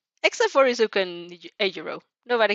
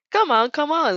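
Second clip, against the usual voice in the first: chuckling; 7 semitones higher, 5 dB louder than usual. A narrator's reading. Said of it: "Father chuckles".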